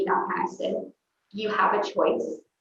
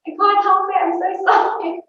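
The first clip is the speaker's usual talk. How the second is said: pleading apology; 10 semitones higher, 6 dB louder than usual. Retold or imitated. Pleading with frustrated husband.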